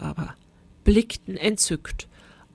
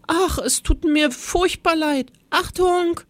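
high little voice, sorry then warning; apologize, then rise into a high warning; timid teacher warns the class, higher and higher; apologetic then warning; 9 semitones higher than usual. Acted.

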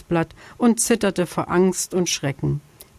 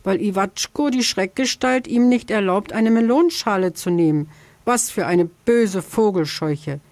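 pear tree voice; 3 semitones higher than usual. Acted.

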